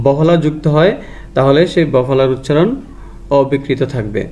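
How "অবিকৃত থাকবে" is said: usual speaking voice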